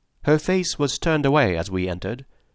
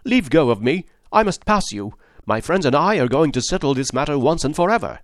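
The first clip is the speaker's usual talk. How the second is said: forceful; 4 semitones higher than usual. Acted. Husband forcing past wife.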